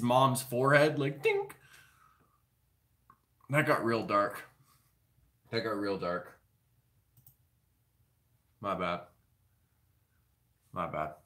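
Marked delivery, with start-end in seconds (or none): 1.2-1.6 high-pitched little dink; a tiny cartoon dink, much higher; bone flick sound. Flicking a rib bone away. 5.5-6.4 softer, lower under the breath; low muttered aside; quieter muttered repeat. Real, not acted. Repeats the remark more quietly. 10.7-11.1 sheepish low murmur; softer muttered apology. Real, not acted. Apology repeated, fading.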